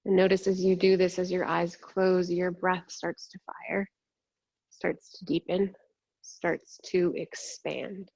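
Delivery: calm meditation voice with long pauses; guided meditation. Real, not acted. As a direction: ease them inward, unhurried and measured.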